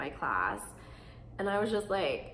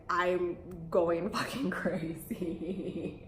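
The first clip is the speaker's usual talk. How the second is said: laughing; much slower than usual. Retold or imitated. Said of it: "I was like".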